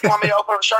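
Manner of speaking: high Southern-accented impression; high, obliging Southern voice; Jimmy Hart. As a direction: imitate an eager Southern showman, pitched high. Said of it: "he wanted to open up his shirt".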